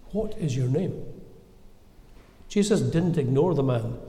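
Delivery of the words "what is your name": a soft, gentle question, a little quieter; asked gently. A narrator's reading. Jesus gently asking the wild man his name, soft and kind. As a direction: ask it gently, as if to a frightened man. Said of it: "he asked gently".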